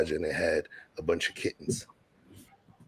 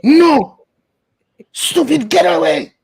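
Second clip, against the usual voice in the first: shouted high Haitian mom yelling at cats; Haitian accent; 15 dB louder, slower than usual. Retold or imitated. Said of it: "with her accent, Haitian accent".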